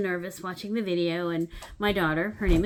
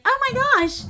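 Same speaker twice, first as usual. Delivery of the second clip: very high, loud squealed oh my gosh; full panic squeal; 9 dB louder than usual. Retold or imitated. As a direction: shriek it as the news sinks in. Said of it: "It started to sink in".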